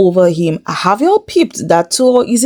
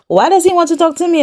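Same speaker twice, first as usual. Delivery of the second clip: mock whine; 10 semitones higher, faster than usual. Voicing Heather, mocking repeat.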